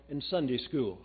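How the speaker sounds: plain, even and unhurried; boy calmly telling the gentleman where he learned it. A narrator's reading. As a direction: answer it simply, a child stating a fact. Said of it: "he said very calmly".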